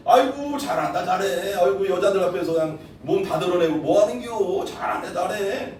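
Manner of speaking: mocking scold that slows at the end; sarcastic jeering. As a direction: jeer at him with fake praise. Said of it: "비아냥거리는 거야".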